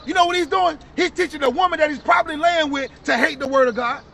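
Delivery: indignant preacher's rebuke; street preaching. Real, not acted. Preacher rebuking a laughing brother, forceful preaching. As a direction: call out the scoffer forcefully.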